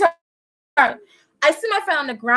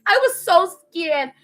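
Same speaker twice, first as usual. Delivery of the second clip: slower, somewhat higher, toned-down dramatic repeat; milder scared; 5 semitones higher than usual. Acted. Repeating her fear to viewers, milder scared voice. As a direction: say it slowly with a touch of fright.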